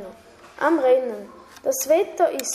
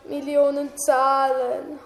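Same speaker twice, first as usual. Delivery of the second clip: wailing; 2 semitones higher, slower than usual. Acted. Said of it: "heulte Jake".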